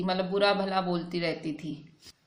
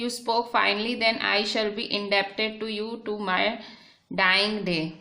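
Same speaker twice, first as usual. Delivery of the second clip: slow, deliberate reading of the English text; slow reading aloud; much slower than usual. Shown as a demonstration. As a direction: read each word out slowly for the class. Reads English text aloud slowly.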